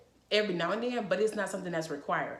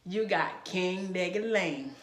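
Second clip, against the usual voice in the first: lightly sultry voice for a husband; sultry flattery; slower than usual. Retold or imitated. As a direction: coo it to him like pillow talk. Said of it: "Tell that man".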